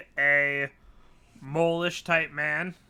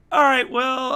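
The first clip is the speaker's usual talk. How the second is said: officials conferring; 9 semitones higher, 8 dB louder than usual. Acted. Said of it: "they go".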